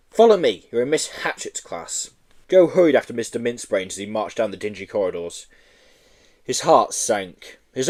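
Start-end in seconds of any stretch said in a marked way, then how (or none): 0.1-2.1 a hint of a stern headmaster, pitched up; lightly voiced bossy headmaster. Headmaster lecturing the new boy, mildly stern.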